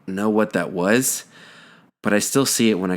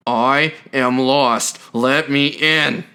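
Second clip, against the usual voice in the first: slow, higher, held-back anger; angry; 5 semitones higher, much slower than usual. Retold or imitated. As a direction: drag it out slowly with rising anger. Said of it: "I could hear the anger in his voice".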